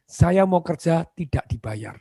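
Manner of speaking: slow, sincere and measured; humble job applicant's plea; earnest plea. Shown as a demonstration. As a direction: say it slowly like you truly mean it. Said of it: "catat ini, ngomongnya bagaimana".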